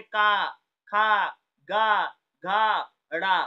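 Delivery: loud slow का खा गा घा from the throat; throat sounds demo. Shown as a demonstration. Teacher sounds out throat consonants for the class, loud and slow. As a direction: sound out का खा गा घा slowly and clearly. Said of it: "कंठ से कौन कौन सी ध्वनि बोली जाती है".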